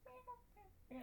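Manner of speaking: high soft cute meow. Retold or imitated. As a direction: meow like a sweet cat. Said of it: "he's very just like".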